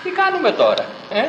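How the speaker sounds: high, urgent, pressing question; high anxious question. Acted. Preacher voicing Peter's dilemma to the congregation, high anxious question. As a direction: throw it up high as if panicking.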